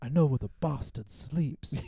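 put-on British accent. Quoting a line from the Dracula film: Keanu Reeves British accent. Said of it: "I forgot he does the British accent".

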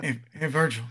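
low, soft, casual murmur, mock tone.

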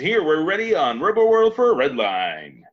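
swooping, animated sports commentator announcer voice. Describing a commentator character and quoting his line; announcer voice. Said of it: "the announcer voice".

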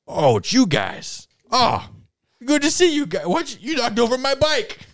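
angry, very high pitch with a swooping tune. Voicing a big, angry man whose bike was knocked over: angry Big Chain Billy voice. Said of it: "He's real angry, and he goes".

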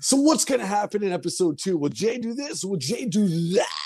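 very high TV announcer delivery. After praising the other speaker's announcer voice, trying an announcer voice too. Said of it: "I love your announcer voice".

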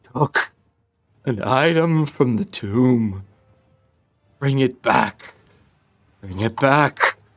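echoey, disembodied voice, as if inside the head. Narrating a game, voicing a voice heard in a player's head, echoey voice. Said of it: "You hear an echoey voice in your head".

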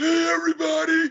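very high, choked-out, barely-there voice. Imitating a film character who got choked out: imitating the character's choked-out voice. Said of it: "Why do you have a different voice?".

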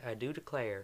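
put-on Southern accent. Trying out an accent for a mayor character, in a nice southern accent. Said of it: "let me try to get a nice southern accent".

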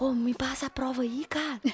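mock stage whisper, too loud. Recalling school, acting out what kids did to cheat: retelling a too-loud whisper. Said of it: "a gente achava que a gente tava sussurrando, só que a gente tava falando baixo muito alto".

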